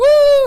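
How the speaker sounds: very high, loud whoop; crowd cheer. Retold or imitated. Everyone in the crowd reacts, whooping. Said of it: "everyone's like".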